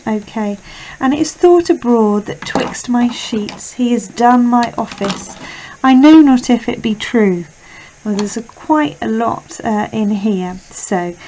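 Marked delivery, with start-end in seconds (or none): 1.0-7.4 projected verse reading, lifted on key words; Shakespeare recitation. Acted. Teacher reads Iago's lines to students, emphatic recitation. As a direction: read the verse out louder, with emphasis.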